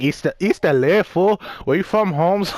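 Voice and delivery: put-on a light Chicano cholo accent, lifted and swaggering; lightly hammed-up East L A cholo accent, calling out. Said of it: "doing a cholo voice".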